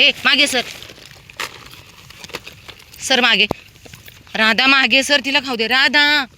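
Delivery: sharp scolding order. Real, not acted. Feeder telling greedy dog to let another eat, sharp scolding. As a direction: call out firmly, stretching the name at the end.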